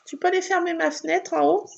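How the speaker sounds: calling out. Real, not acted. Asking someone in another room.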